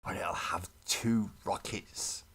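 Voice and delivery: slow whispered aside to himself. Real, not acted. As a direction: let him whisper it like a secret plan.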